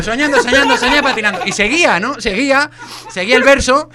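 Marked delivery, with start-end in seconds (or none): 0.0-1.4 mock poetic sing-song recital; mock poetry reading. Shown as a demonstration. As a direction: recite it like verse. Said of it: "se puso a hacer poesía".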